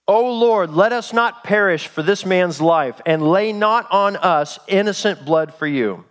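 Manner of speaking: slow, declaimed plea to God; pleading prayer. Acted. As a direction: cry out a solemn prayer, stretching the words. Reads sailors' desperate prayer aloud.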